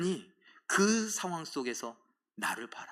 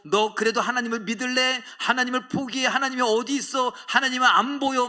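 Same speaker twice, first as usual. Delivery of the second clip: higher, louder mocking challenge; taunting world; 8 semitones higher, 5 dB louder than usual. The world taunting David by the collar, loud and mocking. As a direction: shove the questions at him like a bully.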